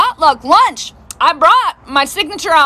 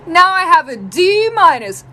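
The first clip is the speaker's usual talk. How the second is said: higher, drawn-out proud reveal; excited daughter; 5 semitones higher, slower than usual. Retold or imitated. Daughter revealing her new grade to mom, excited. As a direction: stretch out the grade triumphantly, playing the kid. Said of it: "she is so excited".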